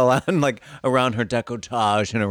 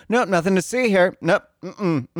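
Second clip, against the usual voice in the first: smuggling parent; 6 semitones higher than usual. Retold or imitated.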